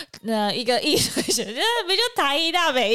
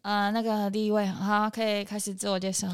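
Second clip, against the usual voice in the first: low, quiet, composed announcer; calm, steady host; 4 semitones lower, 4 dB quieter than usual. Shown as a demonstration. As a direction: settle the voice down, steady. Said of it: "我有变沉稳". (沉稳的主持人口气)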